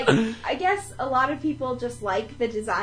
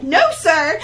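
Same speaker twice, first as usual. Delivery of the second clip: indignant retold refusal, slightly louder; mock yell; 2 semitones higher, 6 dB louder than usual. Friend retelling Ben confronting a picture-taker, mock yell. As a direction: act out his objection with laughter close by. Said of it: "yelling at this guy".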